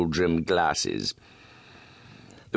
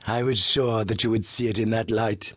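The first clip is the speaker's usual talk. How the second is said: purring; 5 semitones higher than usual. Acted. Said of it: "he purred".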